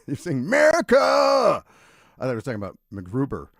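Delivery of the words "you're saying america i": laughing. Real, not acted. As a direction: burst out laughing. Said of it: "so I thought it was MacGruber".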